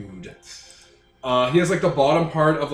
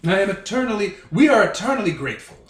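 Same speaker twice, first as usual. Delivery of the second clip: lightly put-on snooty British accent; a North American badly faking a haughty Brit; 4 semitones higher, 4 dB louder, faster than usual. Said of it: "doing a terrible impression of a British person".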